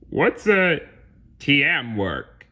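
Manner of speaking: "T M work" read as separate letters; puzzled mispronunciation. Acted. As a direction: ask blankly, sounding "team" as "tee-em". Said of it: "as though he had absolutely no idea".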